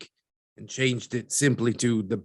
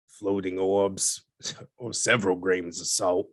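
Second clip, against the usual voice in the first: a laugh breaks into the words, a little lower; amused scoff; 3 semitones lower than usual. Acted. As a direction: chuckle at the floating orbs idea. Mocking the orb story.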